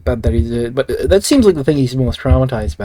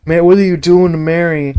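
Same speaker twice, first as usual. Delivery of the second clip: mock-aghast cry at the cult; shocked James; 4 semitones higher than usual. Boyfriend finding the cult's sewer lair, mock horrified. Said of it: "he finds her and he's all like".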